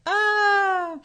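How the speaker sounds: high, loud laugh trailing to a cry; real burst of laughter; high laughing squeal. Real, not acted. Laughs at daughter's remark.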